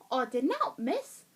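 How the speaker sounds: botched northern English, sounding Cockney; attempted northern accent slipping into Cockney. Shown as a demonstration. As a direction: try northern, land in Cockney. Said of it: "why that came out Cockney".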